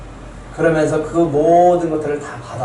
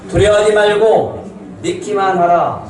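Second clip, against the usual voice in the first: slow, higher, firm voice of Jesus; solemn command; 5 semitones higher than usual. Acted. Preacher voicing Jesus to the grieving father, a slow solemn command. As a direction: proclaim it slowly as a command.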